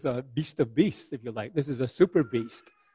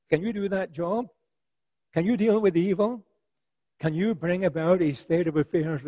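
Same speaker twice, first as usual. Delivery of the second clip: challenging Job; 4 semitones higher, 3 dB louder than usual. Acted.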